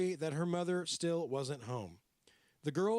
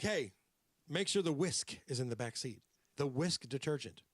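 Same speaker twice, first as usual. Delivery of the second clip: put-on New York accent. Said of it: "I'm doing the New York accent".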